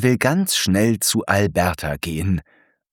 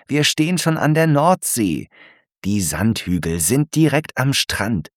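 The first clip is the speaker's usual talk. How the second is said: lightly raised patient zebra voice; Franz explaining; 4 semitones higher than usual. Acted. Franz explains the dunes to Alberta, lightly raised patient voice. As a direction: explain kindly to a curious friend.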